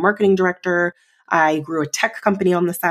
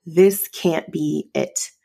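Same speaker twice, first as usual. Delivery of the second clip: terrified denial; 2 semitones lower, slower than usual. Retold or imitated. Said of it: "I was terrified".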